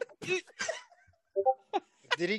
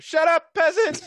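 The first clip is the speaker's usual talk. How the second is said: angry shout; 5 semitones higher, 5 dB louder than usual. Acted. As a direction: snap it out as a haughty guard. Morty slaps Summer in character.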